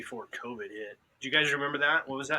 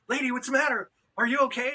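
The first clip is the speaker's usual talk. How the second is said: high, mock worried asking; concerned question; 10 semitones higher, 4 dB louder than usual. Man retelling asking a frantic lady if she's okay, concerned. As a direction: play your own alarmed reply, pitched up.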